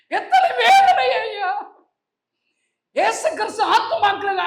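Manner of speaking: high, impassioned pulpit lament; loud, pained preacher's appeal; anguished preaching. Real, not acted. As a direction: cry out in grief to the congregation.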